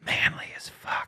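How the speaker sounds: unvoiced breathy whisper. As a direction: whisper it sensually. Whispered aside.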